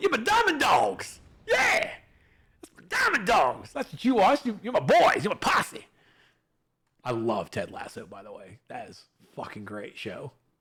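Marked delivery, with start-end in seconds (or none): 0.0-5.9 very high, swooping rallying cry. Thanking a follower, then quoting a show character: Ted Lasso impression. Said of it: "He's like".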